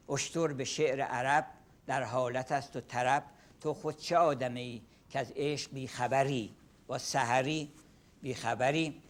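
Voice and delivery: a fast, rhythmic recital of Persian verse; Persian poem recitation. Shown as a demonstration. Lecturer reciting a Saadi poem to the class. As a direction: chant the couplets briskly in Persian. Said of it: "I can recite one example".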